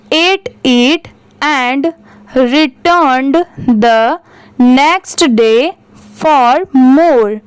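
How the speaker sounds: very slow, word-by-word reading aloud; slow story reading. Acted. Teacher reading the story to her students, very slow and deliberate. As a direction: read it out slowly so students follow each word.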